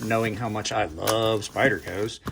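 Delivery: slow, low, drawn-out mock fondness; mild sarcasm. Real, not acted. Knife reviewer telling viewers about a gifted Spyderco, mildly sarcastic. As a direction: stretch out "love" with dry irony. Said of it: "That's a little bit of sarcasm".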